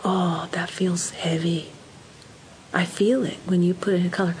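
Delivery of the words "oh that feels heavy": slow empathetic murmur. Shown as a demonstration. Empathizing with child's feeling.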